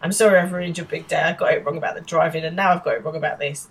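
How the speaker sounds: lightly flustered, hurried apology; flustered guilt-trip. Acted. Polly apologises to Will over his birthday, mildly flustered. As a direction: rush the apology to make him feel guilty. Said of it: "in this sort of flustered way that's making him feel guilty".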